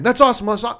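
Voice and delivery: forced enthusiasm. Retold or imitated. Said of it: "convinced myself".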